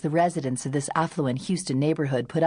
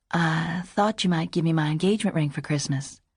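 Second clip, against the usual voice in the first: softly spoken confession. A narrator's reading. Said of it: "made a softly spoken confession".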